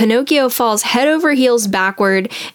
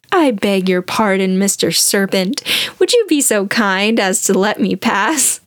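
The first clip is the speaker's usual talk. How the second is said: sweet, soothing voice. Retold or imitated. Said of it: "he says to him in a sweet, soothing voice".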